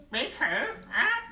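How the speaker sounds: high, loud bird voice with a laugh; high parrot voice. Acted. Parrot asking the frog who Big Bro is. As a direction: squawk a puzzled question.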